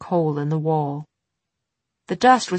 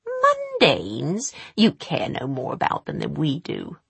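scornful witch. Acted. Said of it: "Missus Dark spat".

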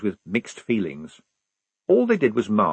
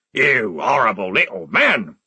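screaming; 4 dB louder than usual. A narrator's reading. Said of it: "he screamed".

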